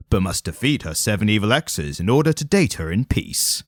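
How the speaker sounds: dramatic trailer narration; movie trailer voiceover. Shown as a demonstration. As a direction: read it like a film trailer. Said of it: "movie trailer voiceover".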